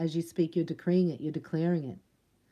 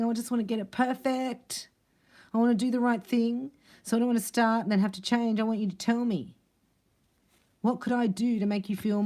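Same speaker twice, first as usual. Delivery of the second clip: eager partner; 6 semitones higher than usual. Acted. Voices eager man wanting it perfect.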